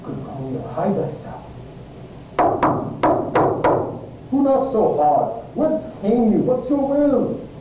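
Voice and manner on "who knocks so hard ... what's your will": high, carrying call; raised-pitch challenge to whoever knocks; calling to the door. Acted. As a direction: call out to an unseen visitor. Friar calls to someone knocking.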